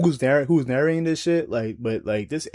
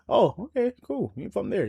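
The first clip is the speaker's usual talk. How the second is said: mock surprise; 7 semitones higher, 6 dB quieter than usual. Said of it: "it be surprising".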